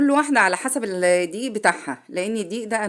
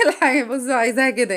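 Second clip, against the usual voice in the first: laughing through the words, higher; 6 semitones higher, faster than usual. Real, not acted. Cook laughing at forgetting the tool's name. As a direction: giggle at your own blank.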